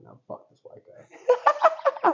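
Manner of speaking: very high, slow, loud mock angry dad; angry dad impression. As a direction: squeal it out like a furious old-school dad. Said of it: "Dad is like".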